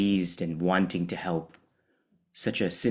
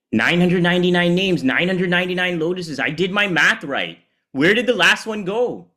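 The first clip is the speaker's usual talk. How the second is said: rising, louder panicked counting; anxious recount; 9 semitones higher, 6 dB louder than usual. Acted. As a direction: count again in growing alarm. Vishnu frantically recounting lotuses.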